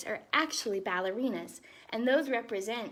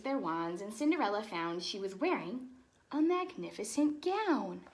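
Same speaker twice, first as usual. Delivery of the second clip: lively storybook read-aloud; animated picture-book narration; reading to children; 4 dB louder than usual. Acted. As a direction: read it like bedtime story time for kids.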